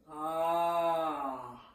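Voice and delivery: open, drawn-out ah from the back; yawny back sound. Shown as a demonstration. Voice teacher showing back resonance, yawny ah. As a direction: sound it into the yawn space. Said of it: "Sounding into that yawn space".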